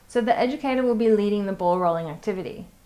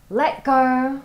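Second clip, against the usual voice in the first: teaching cue; 3 semitones higher, 5 dB louder than usual. Shown as a demonstration. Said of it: "my teaching cues might be".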